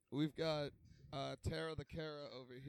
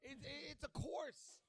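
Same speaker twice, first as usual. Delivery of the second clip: pitched up, slow and exasperated; high indignant protest; 10 semitones higher, 6 dB quieter, slower than usual. Real, not acted. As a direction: squeak out the correction indignantly. Insists it's a course.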